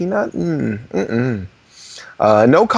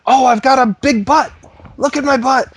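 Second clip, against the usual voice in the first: high, louder silly voice for the dog; playful dog talk; 10 semitones higher, 5 dB louder than usual. Pretend. Showing off to the dog in a high silly voice.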